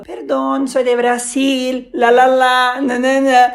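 lightly acted apology in makeshift Spanish; mock sheepish excuse, tailing into nonsense syllables; apologetic. Traveller apologising to the airline attendant for his Spanish, mock apologetic. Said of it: "eu chegava já me desculpando".

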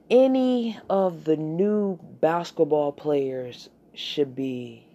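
ordinary delivery

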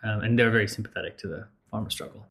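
talking through a mouthful of popcorn; chewing popcorn between words; munching popcorn. Real, not acted. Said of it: "Sorry, I've been eating popcorn".

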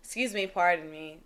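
soft, overly polite mumble; lightly mock polite club escape; extra polite. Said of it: "How you gonna be extra polite".

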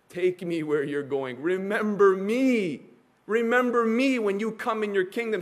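a thief on the cross begging Jesus for mercy, pleading. Acted. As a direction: beg to be remembered. Voicing the thief's plea.

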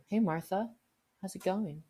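high, strange friendly greeting; eerie overfriendly hello; weird greeting. Retold or imitated. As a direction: greet her like a creepy weirdo. Furry greeting new coworker.

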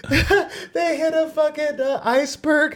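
way up high, squeaky and goofy. Pretend. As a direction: pitch it up into a silly squeak. Joking about sequels, squeaky voice.

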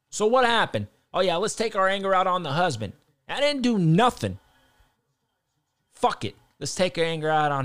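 loud sneering sarcasm; mock their logic with a loud sneer; voicing the company in loud mockery; sarcastic mock. Mocking WWE's reasoning, sarcastic.

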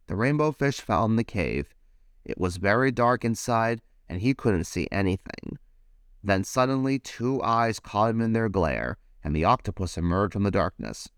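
put-on lively read-aloud for children; animated picture-book reading; storybook narration. A narrator's reading. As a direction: tell it like bedtime story time.

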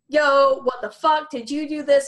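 shocked outburst. Retold or imitated. Violet yelling at the guy who hexed her, shocked and loud. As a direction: blurt it out, alarmed.

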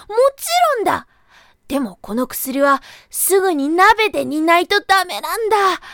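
high, loud eager rabbit voice; sly rabbit. Acted. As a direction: rush the sale like a trickster. Rabbit selling the medicine.

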